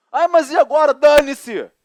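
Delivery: exclamação alta e aguda; loud exasperated outburst. Retold or imitated. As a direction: explodir de impaciência. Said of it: "acted wife". (irritação encenada, bem alta)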